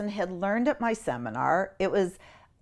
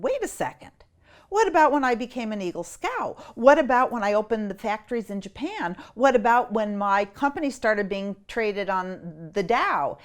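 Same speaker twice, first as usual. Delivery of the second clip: mild protesting man; 3 semitones higher than usual. Retold or imitated. Dead man objects to being of light, mild protest. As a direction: object like a proud businessman. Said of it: "And the man said".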